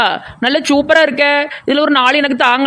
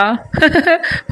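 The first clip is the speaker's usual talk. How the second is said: short, higher-pitched laugh; teasing laugh; 4 semitones higher than usual. Acted. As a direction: chuckle at your own joke. Laughs at own teasing joke. (கிண்டல் சிரிப்பு)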